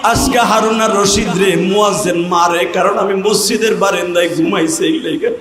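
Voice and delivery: chanted lament to God, imitating a beaten man's plea; mildly acted wailing supplication; retold tearful cry. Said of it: "চিল্লাইয়া কান্দে আর বলে".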